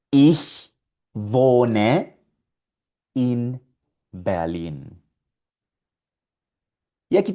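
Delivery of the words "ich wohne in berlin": "Ich wohne in Berlin" word by word with pauses; "wohne" with a V sound, each word set apart; German model sentence. Shown as a demonstration. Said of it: "Digamos que vives en Berlín".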